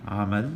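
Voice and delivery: Amal with a short throaty Ain ah; Arabic Amal. Shown as a demonstration. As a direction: start Amal with a clipped ah from the throat. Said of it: "let me do that again".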